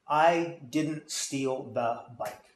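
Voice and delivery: slow, even, every word deliberate; slow demo sentence. Shown as a demonstration. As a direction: lay the sentence out slowly, word by word. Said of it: "using voice inflections".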